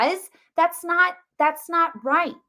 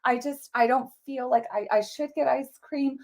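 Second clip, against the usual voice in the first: meek objector; 5 dB quieter than usual. Pretend. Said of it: "one individual who's like".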